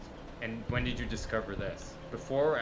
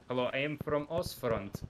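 mock German accent; 2 semitones higher than usual. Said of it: "you've lost your accent".

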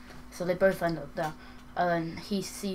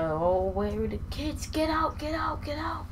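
raised frantic yell at the intruder; yelling get out; 9 semitones higher than usual. Retold or imitated. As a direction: shout it out in a panic. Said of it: "and she's like".

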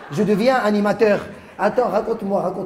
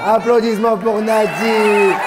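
calling out; 3 semitones higher, 6 dB louder, slower than usual. Real, not acted. Comedian calls for applause.

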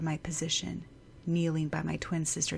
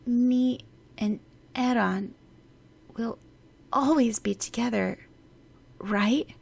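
put-on higher, slow little girl asking timidly; timid and hesitant; 5 semitones higher, 6 dB louder than usual. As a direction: ask shyly, afraid of the answer. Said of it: "In a timid, almost hesitant voice".

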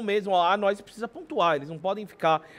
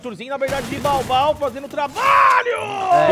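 excited play-by-play; 2 semitones higher than usual. Real, not acted. Live call of a play.

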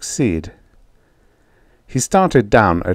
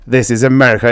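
put-on raised drunk voice; 3 semitones higher, 4 dB louder, faster than usual. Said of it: "He raised his voice".

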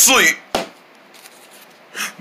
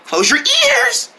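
mock warning; slower than usual. Warning before a yell.

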